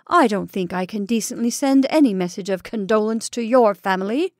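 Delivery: pinned enemy vowing revenge, fierce; fierce threat. Acted. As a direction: hurl the warning at him. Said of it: "said Ulrich fiercely".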